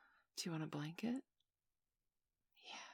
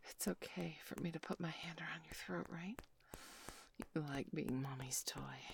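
intimate whisper. Acted. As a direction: whisper it right into the ear. Whispered roleplay continues.

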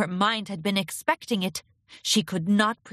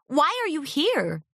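forced calm; 7 semitones higher than usual. Acted. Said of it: "Bon Bon tried to sound calm".

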